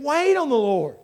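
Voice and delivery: "Wait on the Lord" pitched high; exclamatory emphasis. Acted. Psalmist accenting the end of the chapter, "Wait on the Lord" exclaimed. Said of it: "like there's exclamation points".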